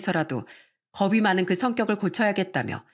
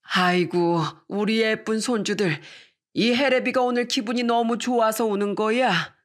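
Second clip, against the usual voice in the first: lightly voiced grandpa soothing his grandchildren; a hint of a tearfully happy elder; doting grandfather; 3 semitones higher than usual. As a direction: reassure the little ones as their grandpa, lightly acted. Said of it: "아빠가 저희 애들을 꼭 끌어안으시더라고요".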